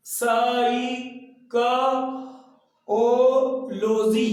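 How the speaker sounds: each letter of स ई क ओ लो जी said separately, mouth shapes shown; spelled out letter by letter. Shown as a demonstration. Teacher showing lip shapes to students letter by letter. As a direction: sound out स, ई, क, ओ, लो, जी one by one. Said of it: "होठ देखिएगा".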